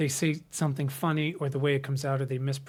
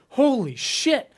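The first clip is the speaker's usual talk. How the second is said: high, loud, slow holy shit of disbelief; stunned disbelief; 10 semitones higher, 7 dB louder, much slower than usual. Retold or imitated. Parents in the car after Barbie, stunned and loud. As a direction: drag it out, stunned.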